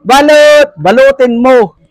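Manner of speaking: drawn-out street call for balot; stretched-out hawker's cry; vendor's call. Real, not acted. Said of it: "sa pagsigaw ko".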